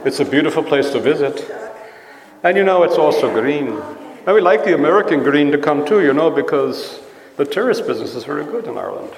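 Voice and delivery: light Irish lilt; top-of-the-morning Irish accent. Shown as a demonstration. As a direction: put on a friendly Irish accent. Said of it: "I think the Irish accent has quite a nice look".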